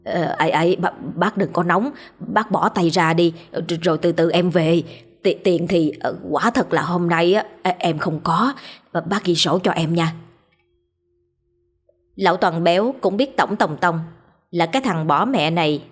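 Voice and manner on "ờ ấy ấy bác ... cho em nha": scared stammer. Acted. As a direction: stutter with fright, pleading. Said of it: "lắp bắp".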